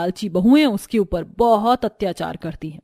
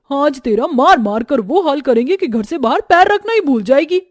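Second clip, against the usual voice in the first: heated, threatening telling-off; angry sister-in-law laying down the law; angry scolding; 4 dB louder than usual. Acted. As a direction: scold her and threaten a beating. Sisters-in-law threaten her with sticks.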